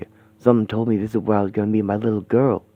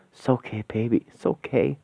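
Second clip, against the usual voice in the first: soft comforting; 3 semitones lower, 4 dB quieter than usual. Acted. Father comforts crying daughter.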